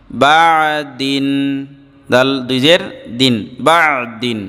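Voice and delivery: measured, level spelling chant with held endings; recitation drill. Shown as a demonstration. Teacher leading students letter by letter, measured recitation drill. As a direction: chant the spelling, then draw out the joined word.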